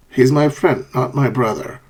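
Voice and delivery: "friend" up, "brother" down; contrastive intonation. Shown as a demonstration. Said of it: "a falling and rising intonation".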